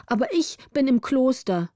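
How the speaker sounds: put-on a bright, sleepy girl answering; young girl's voice. Margareta answers Gritta in a young girl's voice.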